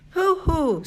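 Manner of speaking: high, loud hooting boast; excited hoot. A narrator's reading. Cheryl hooting proudly at her father, excited. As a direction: hoot it out like a cocky little girl.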